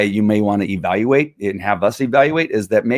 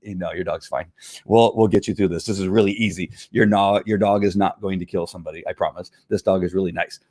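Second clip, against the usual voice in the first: reassuring trainer; 2 semitones lower, 4 dB quieter than usual. Retold or imitated. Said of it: "and I go".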